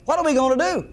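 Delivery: a touch of desperate appeal; retold near panic. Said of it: "he was just in panic almost".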